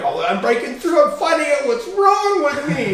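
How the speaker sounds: high, excited mock epiphany voice; imitating his own hyped-up inner voice; mock breakthrough. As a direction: play up a hammed-up aha moment, stretched out.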